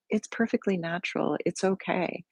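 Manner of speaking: softly reassuring yourself; gentle self-reassurance. Shown as a demonstration. Teacher modelling what we can say to ourselves, softly reassuring. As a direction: soothe with a hushed, easy acceptance.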